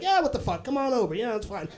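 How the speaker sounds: breezy, offhand swearing; casual cursing. Shown as a demonstration. Inviting you to a last-minute party, casual cursing. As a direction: toss it off lightly, easing down at the end. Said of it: "like, casual".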